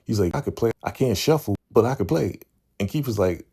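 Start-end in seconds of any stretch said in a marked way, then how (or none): 0.3-2.4 high-pitched, unsure imitation; unconfident. Damien defending his shaky spades skills, unconfident. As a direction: act out someone weakly vouching for himself. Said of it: "He ain't really confident".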